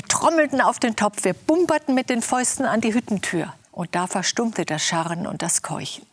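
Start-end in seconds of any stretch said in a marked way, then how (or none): none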